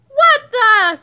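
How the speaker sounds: loud, high startled yell; shocked scream. A narrator's reading. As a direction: scream it in outraged surprise.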